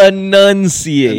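loud, high, very slow "Enunciate"; exaggerated enunciation. Shown as a demonstration. Co-host teases host's word, overdone slow "Enunciate". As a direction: stretch "Enunciate" out syllable by syllable. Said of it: "I was gonna say that too".

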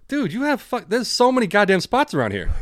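high-pitched, incredulous mock outburst; exasperated inner rant. Retelling silent reaction to a driver who honked, exasperated. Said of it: "in my head, I was like".

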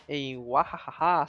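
slow mock villain laugh; a hammed-up evil cackle. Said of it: "aquela coisa de dominar o mundo". (risada maligna exagerada)

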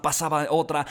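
ordinary delivery

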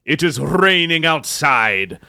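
broad Scottish storm announcer; hammed-up Scottish welcome; Scottish accent. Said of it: "I have shifted to a Scottish accent".

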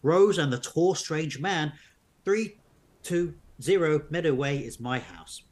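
measured storybook narration; narrating an unfolding mystery tale; story narration. A narrator's reading. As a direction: read the adventure aloud to listeners. Reads the story on.

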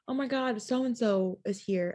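bubbly, excited gushing, mildly done; bubbly friend group. Retold or imitated. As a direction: imitate girls excited over someone's name. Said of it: "just bubbly energy".

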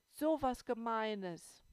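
slow, loud tearful outburst; starting to cry. A narrator's reading. Little girl bursting into tears over the meanness, slow and loud. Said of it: "ich fing an zu heulen".

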